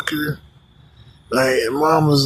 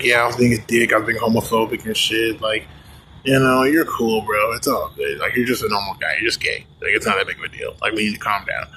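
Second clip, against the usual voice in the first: chill friends; 3 semitones lower than usual. Retold or imitated. Friends reassuring him.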